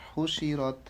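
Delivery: হুশিরত with the final t joined to র; joined reading. Shown as a demonstration. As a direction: read হুশিরত as one linked word. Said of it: "আগের হরফের সাথে মিলিয়ে পড়তে হয়". (হুশিরত মিলিয়ে পড়া)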